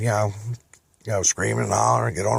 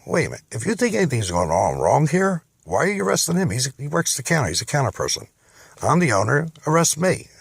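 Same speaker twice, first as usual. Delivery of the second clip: rising higher, indignant and pleading at once; indignant protest; 5 semitones higher than usual. Retold or imitated. Father protests police arresting his son, indignant. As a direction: stand up for your son, outraged.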